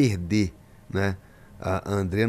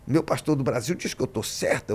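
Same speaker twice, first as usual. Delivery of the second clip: imitating the church sister. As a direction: play the offended sister protesting to her pastor. Pastor imita a irmã indignada. (voz de irmã indignada, aguda no início)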